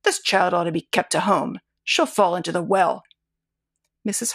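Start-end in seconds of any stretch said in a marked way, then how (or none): 0.0-3.0 gruffly. Acted. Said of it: "he said gruffly".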